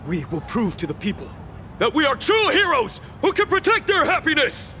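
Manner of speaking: high, ringing rally cry; impassioned hero's vow; heroic declaration. Acted. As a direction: proclaim it high to rally everyone.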